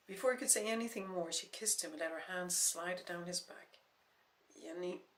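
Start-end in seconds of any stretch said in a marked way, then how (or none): 4.6-5.0 voice breaking. Acted. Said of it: "his voice broke".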